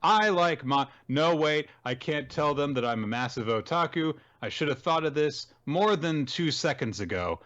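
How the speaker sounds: high, hammed-up teacher voice; theatrical high-pitched teacher; self-introducing teacher. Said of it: "The teacher is like".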